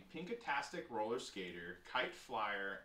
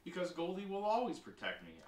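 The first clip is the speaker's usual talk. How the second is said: high, moderately raised shout; 6 semitones higher, 3 dB louder than usual. A narrator's reading. Sister defies brother over Goldie, shouting. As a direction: shout it defiantly, lightly acted. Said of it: "I shouted".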